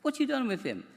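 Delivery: a fretting wife pressing the doctor, voice rising; worried wife. Retold or imitated. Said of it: "and she said to me".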